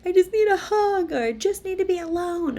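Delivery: put-on high, small kid's voice; child's voice. Twins telling their mom what they need, childlike. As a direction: voice a little kid asking simply. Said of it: "And they're like".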